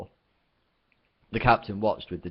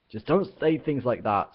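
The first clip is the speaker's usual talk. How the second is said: stammering; 5 semitones higher, 4 dB louder than usual. Acted. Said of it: "stammered Ford".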